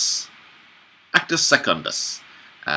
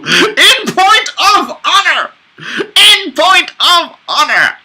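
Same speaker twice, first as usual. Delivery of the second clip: high character voice; 10 dB louder, slower than usual. Acted. Character voice reading a play.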